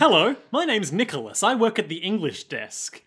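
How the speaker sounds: lightly voiced eager clerk; Nicholas character voice. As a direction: introduce yourself brightly to the mobsters.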